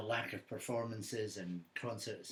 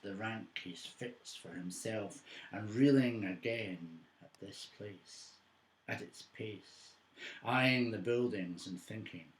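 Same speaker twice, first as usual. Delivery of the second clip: measured recital with deliberate pauses, punched openings, falling line ends; poetry reading. Acted. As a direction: read it as a poem, phrase by phrase. Recites own poem on jazz.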